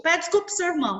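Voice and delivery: put-on a mom fed up with fighting kids; mother ordering. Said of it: "quando mãe manda".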